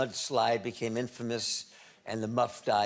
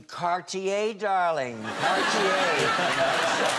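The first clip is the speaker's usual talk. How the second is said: mock whisper; 7 semitones higher, 6 dB louder, much slower than usual. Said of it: "And I'll whisper to you".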